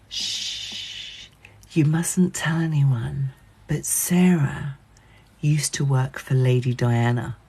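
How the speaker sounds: hushed but carrying, like a tipsy confidant; imitating a drunk friend's whisper; drunken whisper. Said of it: "she thinks she's being quiet".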